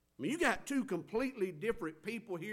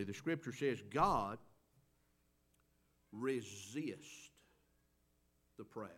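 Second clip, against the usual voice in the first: slow, spaced out with long pauses; slow emphatic; 5 semitones lower, 3 dB quieter, slower than usual. Shown as a demonstration. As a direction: make them hang on each word. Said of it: "Listen carefully".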